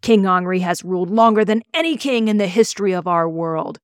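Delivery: speech to the villagers from dragonback; addressing the crowd. A narrator's reading. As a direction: announce yourself like a prince. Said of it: "He addressed the crowd".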